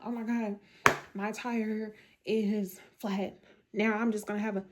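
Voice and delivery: slow, dragged-out mock complaint; mock whiny attitude. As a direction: imitate someone sulking over a flat tire. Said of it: "have the attitude".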